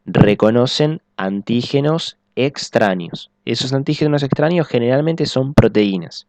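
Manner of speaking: slow, each word set apart; slow restated emphasis. Shown as a demonstration. Teacher to students, slow emphatic restatement. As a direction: spell out "Reconocen antígenos extraños" slowly for notes. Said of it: "les vuelvo a repetir".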